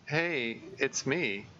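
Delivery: light and bright hello; Monika's voice. Acted. Monika on the phone.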